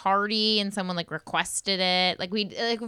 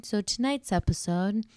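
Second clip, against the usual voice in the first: radio voice. Pretend. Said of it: "I wanted to talk in my radio voice".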